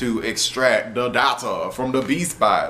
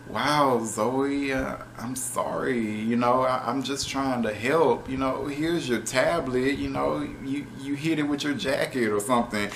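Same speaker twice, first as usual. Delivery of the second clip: softer, small hurt voice; sad, hurt apology; 6 dB quieter than usual. Retold or imitated. Jax overhears Zoe and apologizes, soft and hurt. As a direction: imitate a hurt robot apologizing quietly. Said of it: "Jax was just so sad".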